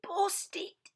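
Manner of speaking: put-on high baby whisper; Baby Blair whisper. Baby Blair whispering about the broken chair. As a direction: whisper it like a little one. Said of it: "said Baby Blair".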